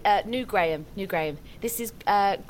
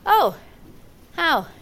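alarmed; 3 semitones higher, 5 dB louder than usual. Acted. Alarmed by the legend.

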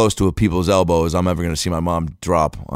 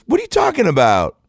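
very high indignant protest; defensive kid; 4 dB louder than usual. Retold or imitated. Kid called out on costume, high defensive protest. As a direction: imitate a kid squealing in mock innocence.

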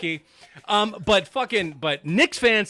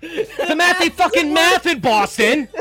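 laughing; 5 semitones higher, 4 dB louder, slower than usual. Real, not acted. Joking about Boston fans.

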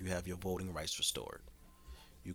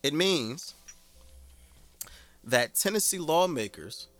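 emphatic; 5 semitones higher, 7 dB louder than usual. Real, not acted. Announcing gun law, emphatic.

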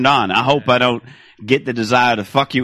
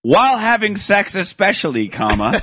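slow and deliberate, saying comma; slow spelled-out dictation; 2 semitones higher, slower than usual. Shown as a demonstration. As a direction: dictate slowly with laughter. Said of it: "Let's take this one at a time".

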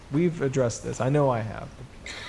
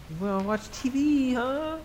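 put-on child voice; 10 semitones higher than usual. Bo voiced in retold movie.

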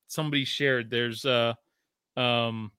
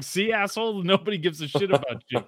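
a hint of a gruff jab; lightly voiced Madden insult; mock Madden jab, retold; 3 semitones higher than usual. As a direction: toss it off quickly with a grin. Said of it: "He was just like".

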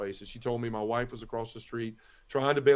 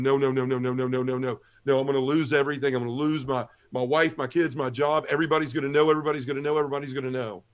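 panicked pleading; faster than usual. Retold or imitated. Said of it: "rubbing my arms and just going".

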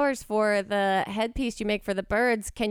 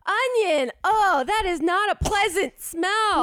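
disgusted by smell; 8 semitones higher, 3 dB louder, slower than usual. Real, not acted. After smelling onion sticker.

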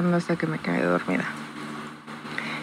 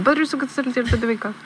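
praying; 5 semitones higher, much faster than usual. Retold or imitated. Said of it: "empecé a rezar".

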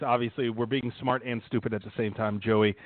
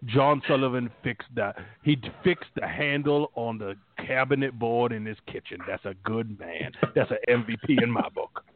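a hint of a folksy southern lineman holding court; Whitworth impression. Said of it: "the speaker's impersonation of Whitworth".

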